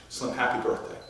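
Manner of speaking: gentle retold greeting. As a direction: say it low and kindly, with a smile. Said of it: "smiled and said".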